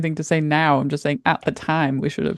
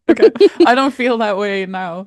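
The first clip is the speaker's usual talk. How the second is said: laughing; 5 semitones higher, 4 dB louder than usual. Real, not acted. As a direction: laugh it off while backing down. Laughing off her own feedback.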